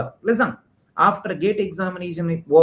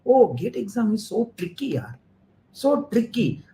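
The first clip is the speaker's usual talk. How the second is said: mock admiration; 3 semitones higher than usual. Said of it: "they will praise the gate paper".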